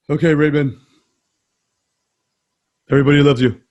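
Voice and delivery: loud, booming sitcom-brother voice; Brad Garrett impression. Brother addressing Raymond on the sitcom, Brad Garrett impression. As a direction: attempt the big brother, belting each phrase out. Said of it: "I gotta do it like".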